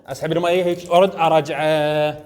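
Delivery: slow, deliberate showing voice; teacher slowing down to demonstrate; slow step-by-step demo. Shown as a demonstration. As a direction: draw each word out slowly for the class. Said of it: "انظر، هاي الثانية".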